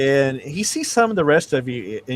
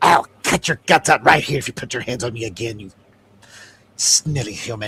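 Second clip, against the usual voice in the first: menacing, spat-out hiss; 3 semitones lower than usual. Narrating a tabletop game, voicing a character who pushes back at you: hissing voice. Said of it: "He he hisses it".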